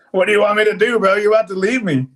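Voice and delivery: exasperated plea. Retold or imitated. Mover begging the quitting helper to stay, exasperated plea. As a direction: throw up your hands and plead. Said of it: "I'm like".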